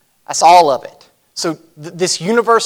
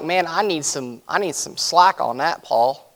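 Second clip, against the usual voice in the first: mock pleading; 5 dB quieter than usual. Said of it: "I'm like".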